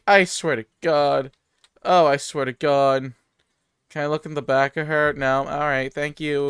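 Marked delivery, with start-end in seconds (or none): 0.1-3.1 terrified horror victim. Real, not acted. Doll scare continues.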